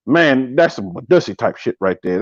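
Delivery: lightly imitated low, slow talk. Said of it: "you know how T K talk".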